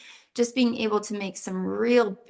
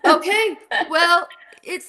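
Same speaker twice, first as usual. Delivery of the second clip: laughing through the words, louder and higher; 8 semitones higher, 6 dB louder than usual. Real, not acted. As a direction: laugh it out, caught off guard. Laughing at degrees question.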